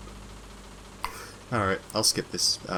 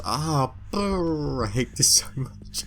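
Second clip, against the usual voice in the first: whispered complaint; 5 semitones higher, much slower than usual. Real, not acted. Stressed by the noisy heist.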